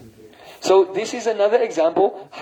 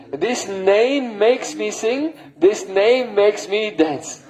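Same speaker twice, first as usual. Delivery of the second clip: slow emphasis; much slower than usual. Acted.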